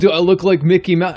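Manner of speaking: first try at a cartoon mouse voice, loud; cartoon mouse voice, not yet high; Mickey Mouse. Shown as a demonstration. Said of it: "this is my Mickey Mouse impression".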